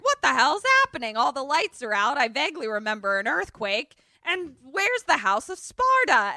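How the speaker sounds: high, loud confused questioning; bewildered outburst. Retold or imitated. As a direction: act out waking up to total confusion. Acts out Peggy waking up bewildered.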